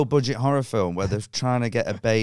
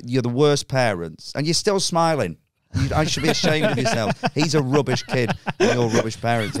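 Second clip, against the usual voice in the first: mock scolding. Comic berating the kid's parents from stage, mock scolding. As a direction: berate them for comic effect.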